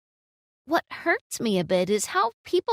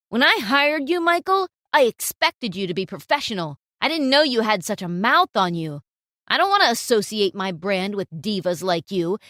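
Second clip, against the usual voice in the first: stern reprimand; 4 dB louder than usual. Acted. Client reprimands photographer.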